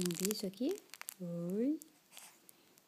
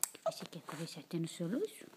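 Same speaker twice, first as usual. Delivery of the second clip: whispering; 4 semitones lower, 5 dB quieter, faster than usual. Real, not acted. Whispering to baby at night.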